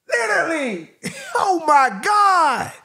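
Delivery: slow, laughing oh my God, then a high what; floored by the bar; amazed disbelief. Real, not acted. Vlogger hearing a lyric he loves, laughing in awe.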